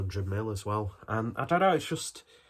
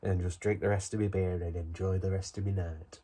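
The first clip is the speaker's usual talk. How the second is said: put-on stereotypical northern English accent; 2 semitones lower than usual. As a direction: slip into a broad northern accent. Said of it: "went into a, a really stereotypical northern accent".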